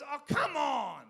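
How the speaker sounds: put-on high, loud, slow childish protest; whining kid. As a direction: stretch it out like a sulky little boy. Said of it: "And he goes".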